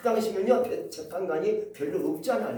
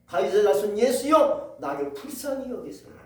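crying out; 2 semitones higher, 5 dB louder than usual. Acted. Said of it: "막 소리칩니다".

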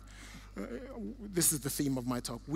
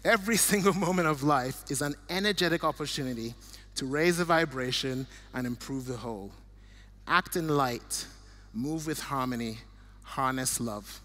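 emotional laugh. Real, not acted. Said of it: "I'm getting emotional".

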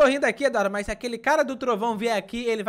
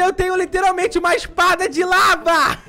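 laughing; 6 semitones higher, 4 dB louder than usual. Real, not acted. Excited about his lava sword.

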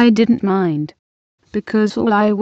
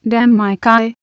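fierce; 4 dB louder than usual. Acted. Adaku defying her personal god before senior wife, fierce. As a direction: spit it out in defiance. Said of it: "she added again fiercely".

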